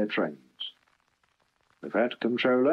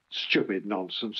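grumbling; 4 dB quieter than usual. Acted. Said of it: "he grumbled".

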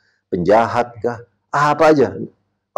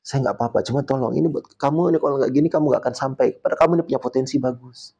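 gentle restraint. Retold or imitated. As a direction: plead kindly instead of scolding. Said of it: "gurunya ini nahan diri untuk tidak marah".

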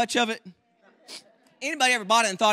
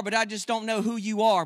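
normal talking voice

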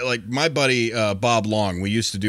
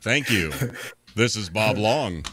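radio voice. Retold or imitated. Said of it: "use his radio voice".

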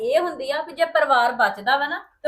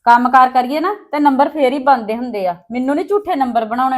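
loud jab; 7 dB louder than usual. Acted. Sharp jab in the quarrel.

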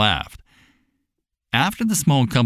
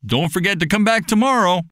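called out farewell; 9 semitones higher than usual. Acted. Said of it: "cried out".

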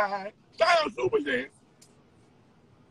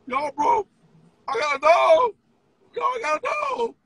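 mock squeal; 11 semitones higher, slower than usual. Mock pleading to the chat.

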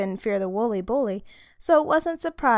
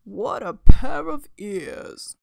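music teacher voice; 9 dB louder, slower than usual. Acted.

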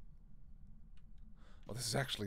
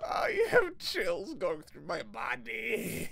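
shout; 9 semitones higher, 5 dB louder, much slower than usual. Real, not acted. Streamer shouting in horror game.

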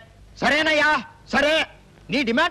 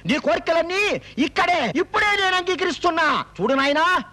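raised-pitch, projected concession; urgent pleading call; 4 semitones higher than usual. Acted. Minister giving in to the jumper, calling up urgently. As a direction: call up to talk him down.

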